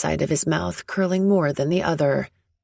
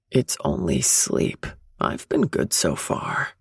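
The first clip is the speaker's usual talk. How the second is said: muttering. Acted. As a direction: mutter it under your breath. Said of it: "he mutters".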